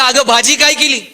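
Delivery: mock call across the room. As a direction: call out the question, without real shouting. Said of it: "तिथून आवाज दिला".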